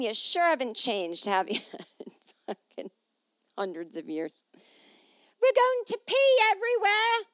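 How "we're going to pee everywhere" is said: put-on high, loud, botched French accent; a French accent that comes out wrong; failed French accent. Mocking men who pee anywhere, in a failed French accent. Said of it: "That's not a French accent".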